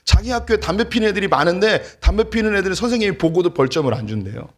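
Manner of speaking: high, loud, rushed mock outrage; retold indignant complaint. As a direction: relay an angry son's grievance in a fast rant. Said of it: "너무 화가 난 거예요". (화난 아들을 흉내 내며 높고 빠르게 따지듯)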